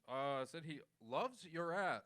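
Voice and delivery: mock news anchor, emphasis on "loves"; Wolf Blitzer. Shown as a demonstration. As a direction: read it very factually, like from paper. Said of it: "Wolf Blitzer reads it from a piece of paper, very factually".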